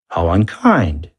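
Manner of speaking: slow, mock-sympathetic sarcasm; sarcastic. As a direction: drip sarcasm slowly over it. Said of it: "his voice oozing with sarcasm".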